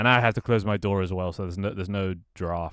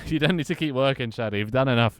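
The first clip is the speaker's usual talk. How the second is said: louder, firm, pressing the point; emphatic insistence; 4 semitones higher, 5 dB louder than usual. Real, not acted. Telling Shaddy to stop working, emphatic and louder. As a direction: insist he has done enough.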